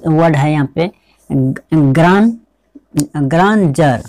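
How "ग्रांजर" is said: ग्रांजर with a "j" after the n; pronunciation demo. Shown as a demonstration. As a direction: model ग्रांजर clearly, ending in "jar". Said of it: "इसको क्या पढ़ेंगे". (ग्रांजर के अंत में "जर" का उच्चारण)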